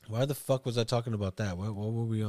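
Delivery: hazy, lost stoned mumble; spaced out and drifting. Real, not acted. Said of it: "Hey man, I'm high as fuck".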